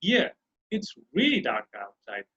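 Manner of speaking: slow, low answer down to "outside"; flat answer tone. Shown as a demonstration. Teacher models the answer, slow flat tone falling on "outside". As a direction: let "outside" drop, slowly. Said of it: "just the flat tone".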